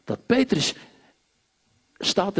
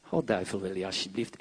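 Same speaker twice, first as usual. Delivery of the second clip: timid plea; 10 semitones lower, 7 dB quieter, faster than usual. Retold or imitated. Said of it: "En ik zei niet".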